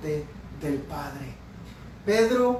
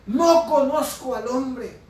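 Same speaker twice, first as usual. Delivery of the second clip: emphatic, slower, louder mock oath; retold cursing denial; 4 semitones higher, 5 dB louder, slower than usual. Preacher retelling Peter denying Jesus, emphatic slow oath. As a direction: swear it slowly and forcefully, retelling the outburst. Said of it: "él comenzó a maldecir".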